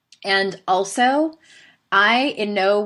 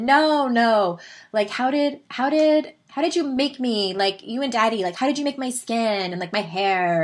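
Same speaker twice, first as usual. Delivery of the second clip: higher-pitched imitation of an insistent little Valley girl; Valley girl daughter; 5 semitones higher than usual. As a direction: mimic a small kid pressing her question, starting high and easing down. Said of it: "very Southern California Valley girl".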